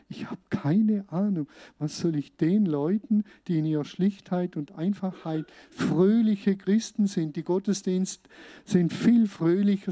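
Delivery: insisting he cannot preach, worked up; agitated protest. Retold or imitated. Retold protest to Indian leader.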